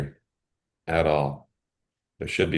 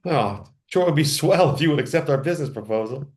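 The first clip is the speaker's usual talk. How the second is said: put-on higher, eager golly-gee kid voice; wholesome 1950s kid; 8 semitones higher than usual. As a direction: play an earnest orphan pitching. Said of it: "I'm gonna go that route".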